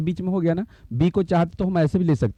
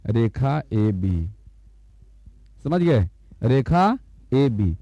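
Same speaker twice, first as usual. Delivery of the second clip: slow reading aloud; 3 semitones lower, slower than usual. Shown as a demonstration. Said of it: "तो इसको पढ़ेंगे कि रेखा".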